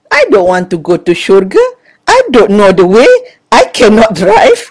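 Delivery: put-on loud, indignant little-girl voice; little girl protesting. Young Mira loudly refuses to go to heaven. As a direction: insist like a stubborn small child. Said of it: "Lepas tu dia kata".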